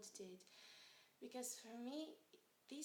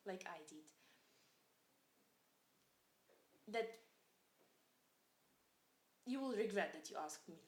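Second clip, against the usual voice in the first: put-on defiant child; 4 semitones lower than usual.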